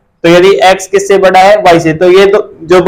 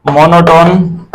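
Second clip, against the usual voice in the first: stretched out very slowly, every sound drawn long; slow dictation; much slower than usual. Shown as a demonstration. Teacher to students taking notes, slow dictation. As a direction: spell it out slowly for the class to write. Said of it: "teacher dictating the term".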